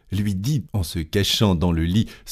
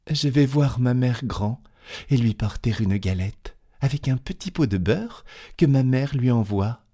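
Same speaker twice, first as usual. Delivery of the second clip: put-on lightly raised, innocent little girl; a young girl chatting, a touch higher; 5 semitones higher than usual. To the wolf, a child lightly voiced. Red Riding Hood answers the wolf.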